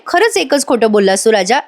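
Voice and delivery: a touch of angry sarcasm on खरंच; lightly voiced annoyed wife; understated irritated question; mild anger. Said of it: "Avni चिडते आणि म्हणते".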